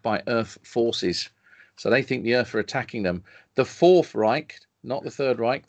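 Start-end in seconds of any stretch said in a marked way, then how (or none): 3.5-4.6 slow, louder synopsis announcement; grand, drawn-out summary read; dramatic reading. Acted. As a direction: draw out the name with mock gravity. Reads out film summary with drama.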